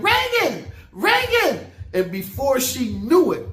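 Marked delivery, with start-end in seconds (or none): 0.0-1.7 mock very high, swooping shriek. Telling a story, the speaker acts out their past self: retelling a scream. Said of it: "And I'm screaming".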